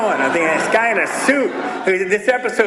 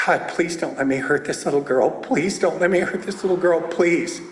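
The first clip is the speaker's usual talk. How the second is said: desperate prayer; 4 semitones lower than usual. Retold or imitated. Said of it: "and I said".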